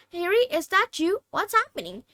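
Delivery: Neville's worried voice. A narrator's reading. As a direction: call out, lost and scared.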